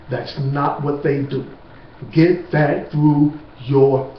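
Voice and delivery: slow, emphatic insistence. Real, not acted. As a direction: drive each word home slowly and firmly. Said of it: "I'm gonna say this emphatically to you".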